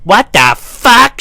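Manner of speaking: high, loud, drawn-out disbelief; stretched, high-pitched exclamation; imitating a shocked roommate. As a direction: cry out slowly in mock shock. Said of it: "she was like".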